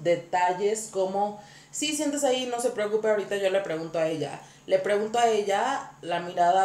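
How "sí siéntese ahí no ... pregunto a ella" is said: a hint of a norteño accent, quick; light Tijuana accent, reassuring tone; northern Mexican accent. Stylist seating the husband in a light norteño accent. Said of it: "mi voz de seguridad".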